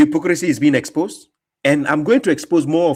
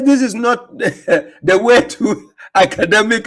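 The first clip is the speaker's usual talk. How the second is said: laughing; 4 semitones higher, slower than usual. Real, not acted.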